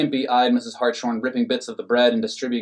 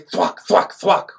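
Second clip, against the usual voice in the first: swat sound; 7 semitones higher, 5 dB louder, much slower than usual. A narrator's reading. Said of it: "went Skimpy's swat".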